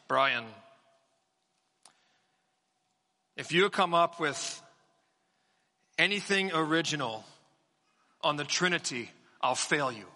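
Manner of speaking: a light hint of a Welsh accent; Doctor Thomas Welsh accent. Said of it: "in this Welsh accent".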